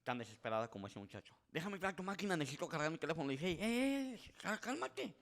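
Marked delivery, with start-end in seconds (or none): 1.5-3.3 higher, hurried pleading; desperate plea. Retold or imitated. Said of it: "pero desesperado". 3.5-5.2 high, drawn-out call to calm down; calming him down. Retold or imitated. Calming a panicking coworker.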